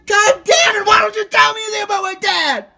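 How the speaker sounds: high, angry shouted demand; curse, then demand an answer; real exasperated outburst; exploding in frustration. Real, not acted. Shouting at relative in quarrel.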